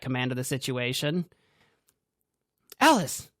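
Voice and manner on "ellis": high, loud call of a name. A narrator's reading. Cassidy calling Ellis over, high and loud. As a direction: call her over sharply.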